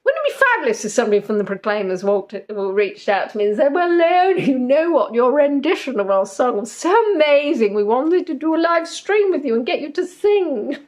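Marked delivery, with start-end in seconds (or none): 3.7-10.8 imagined gushing praise. Pretend. Imagined fan call from the band.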